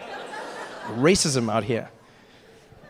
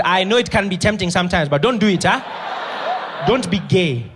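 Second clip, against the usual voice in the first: Ali's earnest warning; 3 semitones higher, 4 dB louder than usual. Retold or imitated. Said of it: "He says".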